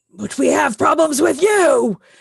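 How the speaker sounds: shout with cracking voice. Voicing characters yelling back after hearing "we have no quarrel": yelling, voice cracking. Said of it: "they basically just kind of yell".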